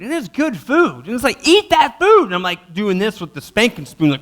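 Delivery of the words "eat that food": higher, louder command to eat; stern dad order. Retold or imitated. Dad ordering his son to eat the food, louder. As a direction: bark the order at the kid.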